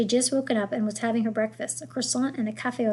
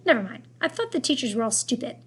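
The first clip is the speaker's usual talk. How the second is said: French grandmother. Acted. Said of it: "thick French accent".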